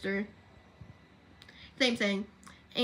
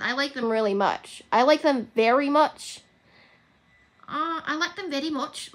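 put-on practising an Irish accent, not quite there; amateur Irish accent; attempted Irish accent; 3 semitones higher, 4 dB louder than usual. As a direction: try the phrase in Irish. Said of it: "that was so close".

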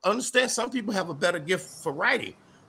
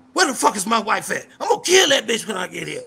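proper-talking menace; 5 semitones higher, 4 dB louder than usual. Retold or imitated. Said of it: "one of his jokes would say".

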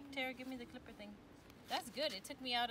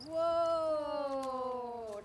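surprised; 6 semitones higher, 9 dB louder than usual. Real, not acted. Seeing the big fish.

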